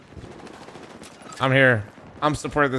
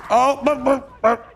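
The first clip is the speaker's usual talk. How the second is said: excited stammer; 11 semitones higher, 4 dB louder, slower than usual. Real, not acted.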